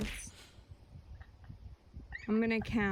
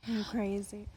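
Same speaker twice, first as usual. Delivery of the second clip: whispering. Real, not acted. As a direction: whisper it to yourself. Repeats line in whisper.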